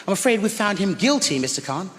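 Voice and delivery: teacher calmly correcting the uncle; cool teacher. Retold or imitated. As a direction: turn the question back on him coolly. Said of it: "she said".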